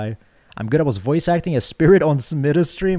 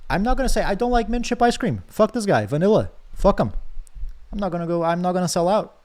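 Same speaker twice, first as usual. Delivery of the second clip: higher, indignant refusal; real exasperation at the game; defiant outburst; 6 semitones higher than usual. Real, not acted. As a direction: dig in your heels and refuse. Player defies game's demand.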